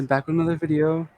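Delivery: quick, upbeat YouTuber intro. Retold or imitated. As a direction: rattle it off like a vlog opener. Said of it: "Sound like a commentator".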